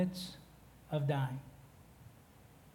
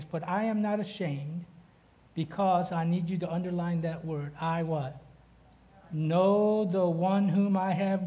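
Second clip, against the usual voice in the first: scripture reading. Acted. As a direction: proclaim the verses to the church. Reads scripture aloud.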